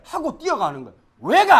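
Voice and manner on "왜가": high, loud whiny comeback; wrong sulky reply. Shown as a demonstration. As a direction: talk back like a brat. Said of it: "아니야".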